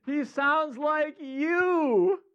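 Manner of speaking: YOU stretched long, high and loud; slow, high, loud reveal landing on a long YOU; drawn-out reveal. Real, not acted. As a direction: stretch YOU out like a big punchline. Drawn-out punchline answer to own question.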